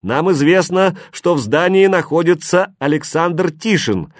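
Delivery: loud, high, lifeless megaphone voice; cold metallic announcement, no feeling; booming metallic robot. A narrator's reading. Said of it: "зазвучал металлический неживой голос".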